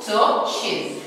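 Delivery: 'Torches' with no R sound; silent R. Shown as a demonstration. Teacher reading the plural to pupils, R silent. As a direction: leave the R out of 'Torches'. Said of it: "I said this R is silent".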